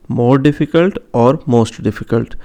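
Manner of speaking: both forms said slowly and distinctly; slow careful demo. Shown as a demonstration. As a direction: lay each form out slowly for students. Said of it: "teacher demonstrates degree forms". (धीमे, साफ़ शिक्षक वाले अंदाज़ में)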